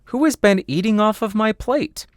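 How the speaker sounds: high, indignant little dwarf voice; second dwarf. Acted. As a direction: squeak the question up high as a dwarf.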